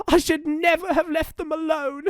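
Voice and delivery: high-pitched acted wail; sobbing. A narrator's reading. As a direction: wail it tearfully as a guilty mother. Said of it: "she sobbed".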